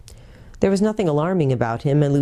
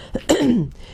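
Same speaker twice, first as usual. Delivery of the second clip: half growl; 8 semitones higher than usual. Acted. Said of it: "with a little half growl".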